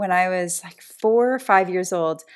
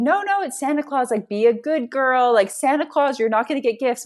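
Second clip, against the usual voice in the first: mildly raised, higher parental insistence; lightly voiced parents admonishing a child; insistent parents; 5 semitones higher, 3 dB louder than usual. Parents telling a little girl to be good, mildly insistent.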